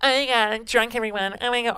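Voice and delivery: mock-drunk yelling to everyone; annoying drunk. Mocking their annoying drunk self to everyone, slurred drunk whine. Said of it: "I'm so annoying".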